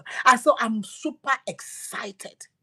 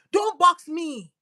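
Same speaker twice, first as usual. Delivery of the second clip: slow shout; 6 semitones higher, 3 dB louder, slower than usual. Acted. God's command voiced, shouted.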